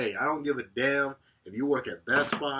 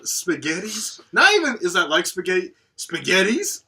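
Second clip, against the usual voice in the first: mocking the customer; 8 semitones higher, 11 dB louder than usual.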